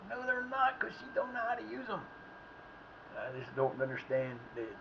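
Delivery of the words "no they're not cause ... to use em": retelling own reply. Retold or imitated. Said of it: "I'm like".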